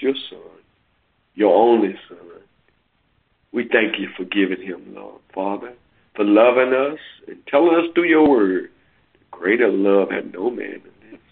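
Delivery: spoken prayer. Real, not acted. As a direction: pray for the listeners with reverence. Leads a closing prayer.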